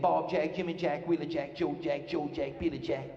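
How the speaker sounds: "Bob Jack, Jimmy Jack" chanted in an even beat; each "Jack" landing on the same beat; rhythmic name list. Shown as a demonstration. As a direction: run "Joe Jack, Billy Jack" together in steady rhythm. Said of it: "You gotta have rhythm".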